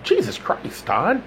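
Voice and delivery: light woman's voice, demanding; demanding woman caller. A narrator's reading. Janice calling Todd after all morning, demanding. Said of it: "demanded a voice".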